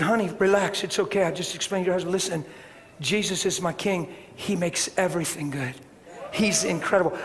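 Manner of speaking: soft, hushed reassurance; calm her down tenderly; soothing comfort. Retold or imitated. Comforting the shaking wife.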